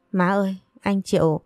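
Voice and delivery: a hint of tearful sobbing in the voice; lightly voiced weeping girl complaining to her mother-in-law; crying, aggrieved. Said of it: "uất ức vừa khóc vừa nói". (giọng hơi mếu máo, nghẹn ngào)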